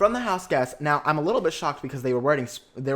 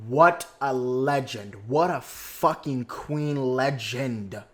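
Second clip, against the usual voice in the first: drawn-out awe; much slower than usual. Real, not acted. Slowly, fan stunned by Angela's win, drawn-out awe. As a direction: stretch each word out slowly in disbelief.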